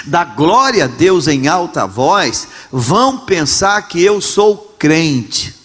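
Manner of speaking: slow, dragging mock of a shy churchgoer; embarrassed believer, drawn out. Pastor mocking ashamed believers, slow and drawn out. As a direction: stretch every word like a reluctant member. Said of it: "Ah, nós temos vergonha".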